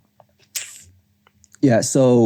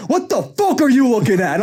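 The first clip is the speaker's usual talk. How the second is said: high-pitched imitated confrontation; mock angry outburst; 12 semitones higher than usual. Storyteller mimics patient turning on old visitor, mock angry outburst.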